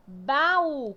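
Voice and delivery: "Baú" said loud with a strong final U; stress on U. Shown as a demonstration. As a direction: punch the last syllable of "Baú". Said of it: "Tá vendo que o U é mais forte?".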